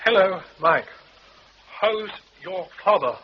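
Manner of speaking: high, comic stage Irish voice; music-hall Irishman, hammed up; stage Irish accent. Music-hall Irish cross-talk act.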